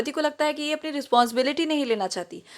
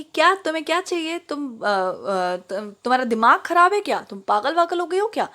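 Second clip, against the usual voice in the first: annoyed; 3 semitones higher than usual. Retold or imitated. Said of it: "अब वो कहती है".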